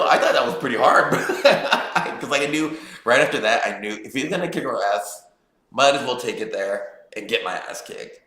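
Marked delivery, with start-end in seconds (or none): 0.0-3.7 laughing while talking. Real, not acted. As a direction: chuckle through the words. Laughing at his own comeback.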